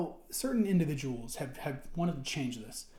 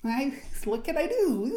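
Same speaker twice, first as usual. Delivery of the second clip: mock apology; 7 semitones higher, 3 dB louder than usual. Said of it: "and so it's just".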